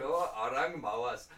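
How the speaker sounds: lightly put-on Malaysian accent. Host showing Malaysia differs from India, light Malaysian accent. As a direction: give it a Malaysian intonation. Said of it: "intonation difference between Malaysia and India".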